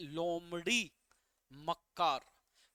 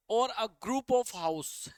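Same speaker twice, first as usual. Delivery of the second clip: slow reading; 4 dB louder, much slower than usual. Shown as a demonstration. Teacher reads question slowly.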